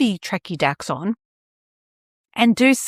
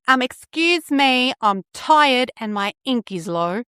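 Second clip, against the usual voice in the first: voicing the printer; 4 semitones higher than usual. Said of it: "It's not gonna sit there going".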